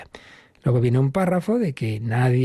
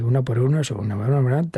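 rote recital; faster than usual. Shown as a demonstration. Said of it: "como el que se ha aprendido la tabla de multiplicar".

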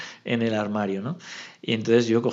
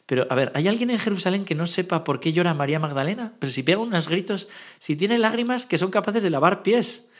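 incredulous angel; 6 semitones higher than usual. Acted. Imagined angels puzzled by God's question.

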